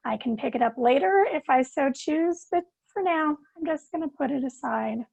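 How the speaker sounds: calm, soothing meditation guide; guided meditation. Acted. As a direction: ease listeners into stillness.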